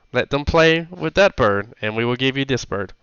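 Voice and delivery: lightly voiced hobgoblin woman, bargaining; a hint of a girlish goblin trader. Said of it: "I still have the girl voice on".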